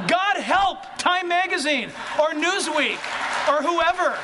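laughing outcry. Real, not acted. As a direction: throw it out with a laugh. Preacher's laughing outburst.

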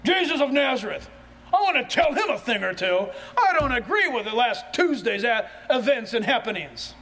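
half-laughing, defiant seeker with a grudge; defiant attitude. Acted. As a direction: come to argue with Jesus, chuckling. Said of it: "in what attitude have you come".

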